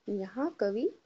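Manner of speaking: sing-song classroom recitation; teacher leading choral reading; repeat-after-me tone. Shown as a demonstration. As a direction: lead the class line by line. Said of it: "बोलिए मेरे पीछे".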